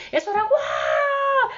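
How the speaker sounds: high, loud, drawn-out slow wail; imitated wailing scream. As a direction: echo the cries of falling souls. Souls screaming falling into abyss.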